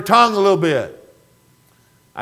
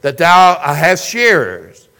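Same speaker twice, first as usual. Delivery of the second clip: scripture reading; 3 dB louder than usual. Acted. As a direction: read the verses aloud with solemn weight. Reads scripture passage aloud.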